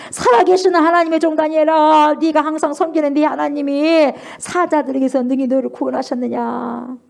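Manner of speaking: high, loud anguished calling out, slowing at the end; trembling sad shout. Retold or imitated. King shouting into the lions' den for Daniel, anguished. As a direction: cry out in anguish, afraid of no answer. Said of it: "떨리면서 막 소리 지르는 거예요".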